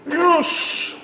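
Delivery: high squeaky yes; excited. Real, not acted. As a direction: celebrate the hit. Player celebrates hit.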